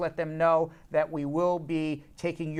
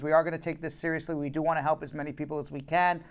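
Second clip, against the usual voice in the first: businesslike on-air pitch, settled down; a little serious; 3 semitones lower than usual. Real, not acted. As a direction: drop the joking and address viewers earnestly. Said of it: "We're gonna turn this a little serious now".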